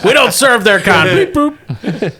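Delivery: beeping robot barkeep; robot bartender voice. Acted. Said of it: "the droid bartender".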